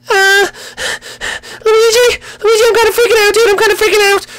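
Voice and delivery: very high frantic princess falsetto; high-pitched Peach freaking out; panicked princess. Acted.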